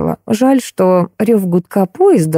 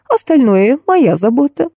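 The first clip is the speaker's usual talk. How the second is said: high, coaxing reassurance; affectionate aunt, lilting; tender sing-song; 7 semitones higher than usual. A narrator's reading. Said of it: "ласково пропела Карина Карловна". (ласково напевает, успокаивая)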